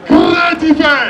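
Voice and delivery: high, loud hometown cheer; rally the crowd with it; rallying cry. Real, not acted. (igbe ìwúrí)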